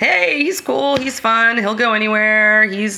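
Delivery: laid-back, unbothered, relaxed delivery.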